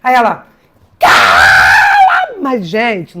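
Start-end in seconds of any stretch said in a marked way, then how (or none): 1.0-2.4 high, sharp yelled command; student yelling at a classmate, sharp and loud; sudden shout. Retold or imitated. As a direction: shout it to startle the room. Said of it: "não era um cala a boca".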